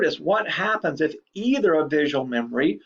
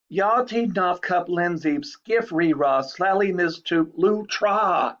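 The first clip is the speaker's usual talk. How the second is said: slow nonsense dictation; 3 semitones higher, slower than usual. Shown as a demonstration. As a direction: dictate the long nonsense string slowly for repetition. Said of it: "here's fifteen syllables".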